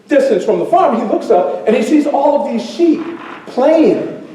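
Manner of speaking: lively storyteller narration with swelling pitch; animated storytelling. Acted. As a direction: tell it vividly to a crowd, savoring the surprises.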